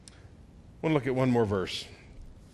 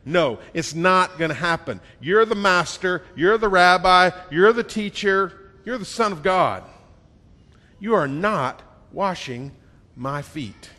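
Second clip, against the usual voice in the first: loud, insistent refusal climbing in force; a fervent, raised-voice objection; heated protest; 3 semitones higher, 6 dB louder than usual. Acted. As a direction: Peter arguing back, louder on each title. Peter protesting to Jesus.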